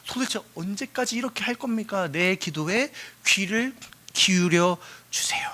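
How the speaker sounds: acted prayer, slowing at the end; mild, beseeching supplication; earnest pleading. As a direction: implore God, drawing out the closing words. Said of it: "간절하게 구하고 있단 말이야".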